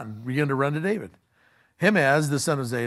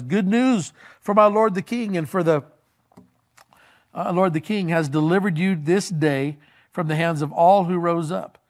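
raised, formal messenger's announcement; proclaiming good news; 3 semitones higher, 4 dB louder than usual. Acted. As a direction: herald it to the king. Acted messenger proclaiming victory to king.

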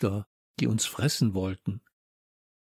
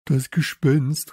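loud, slow exclamation, raised in pitch; called out; 4 semitones higher, 5 dB louder, slower than usual. A narrator's reading. Samson names what squeaked in the dark school, calling out. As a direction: stretch it out as a raised cry. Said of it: "rief Samson".

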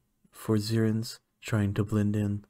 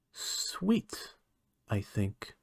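whispered sweet; 5 dB quieter, much slower than usual. Acted. Scientist savours the human's smell.

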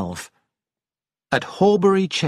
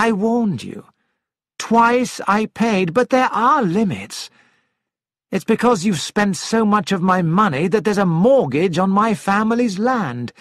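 raised, cold, reproachful husband; stern husband; 4 semitones higher than usual. Acted. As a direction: confront her, firm and cold. Husband answers firmly.

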